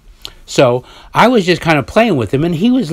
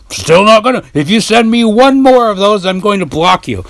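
high mocking voice; 8 semitones higher, 4 dB louder than usual. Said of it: "this is my voice".

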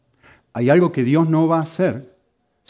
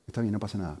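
soft, lower, meek concession; 5 semitones lower, 8 dB quieter, faster than usual. Acted. Yielding to an enemy and offering to pay, meek. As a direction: give in gently without resisting. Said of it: "sino con una actitud mansa".

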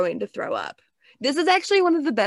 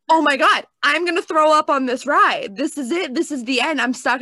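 retold rising panic, higher and louder at first; worked-up panic; 4 semitones higher, 5 dB louder than usual. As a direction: act out getting worked up, then easing slightly. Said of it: "works me up".

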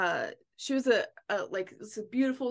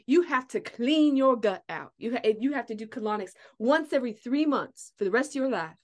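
higher, punchy retold instruction; emphatic advice; 3 semitones higher, 4 dB louder than usual. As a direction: lay down the rule as the old lady. Old lady's emphatic advice retold.

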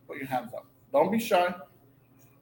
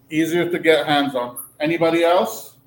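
repeating the answer loudly for everyone; loud for the room; 5 dB louder than usual. Real, not acted. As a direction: project to the back row. Repeating quiet student answers aloud.

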